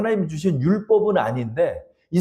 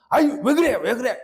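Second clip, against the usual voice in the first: much higher coaxing whine; placating son; 7 semitones higher than usual. Retold or imitated. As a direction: soothe her, a bit put upon. Jesus placating mother.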